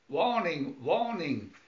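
alarm call repeated; robot warning cry. Acted. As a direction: sound the alarm. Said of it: "cried the robot".

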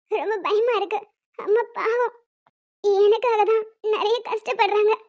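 crying with worry; tearful. Acted. Daughter afraid for her mother, tearful. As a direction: speak through tears, slowing at the end. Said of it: "அப்புறம் ஏன் அழுகுற?".

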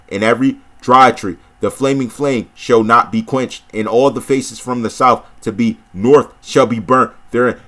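measured, solemn Bible reading; scripture reading. Acted. Preacher reading scripture to viewers, measured and solemn. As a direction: read the prophecy steadily, like from a pulpit.

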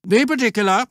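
stern scoutmaster. A narrator's reading. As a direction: lay down the rule to the troop.

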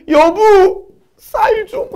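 very high, hammed-up wailing; mock crying plea. Husband crying to his wife for rice, exaggerated mock sobbing. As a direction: build into a loud, pleading mock wail. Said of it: "울면서".

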